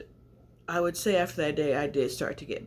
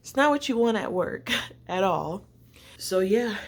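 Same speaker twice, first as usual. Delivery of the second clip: laughing, louder and higher; 5 semitones higher, 6 dB louder than usual. Real, not acted. Laughing about work fatigue.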